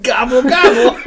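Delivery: turkey impression. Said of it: "That's the best turkey impression".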